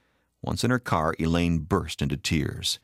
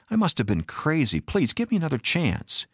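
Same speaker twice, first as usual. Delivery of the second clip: high, urgent pleading; desperate appeal, voice climbing high; begging forgiveness; 9 semitones higher than usual. A narrator's reading. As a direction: beg for one more chance. Husband begs forgiveness.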